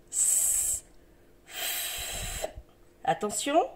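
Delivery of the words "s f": "s" and "f" held long as pure breath sounds; suoni isolati. Shown as a demonstration. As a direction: hold "s", then "f", on breath with no voice. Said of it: "Là, c'est le souffle".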